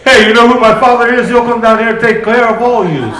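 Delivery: a touch of New York Italian mob talk; mock Italian mobster. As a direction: play a tough wiseguy, lightly. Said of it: "When Jesus would get mad, what would he say?".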